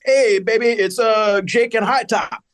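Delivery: hammed-up fake pimp hello; imitating Carl's pimp act. Host retelling Carl posing as a pimp, mock pimp voice. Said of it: "speak to Vanessa in character".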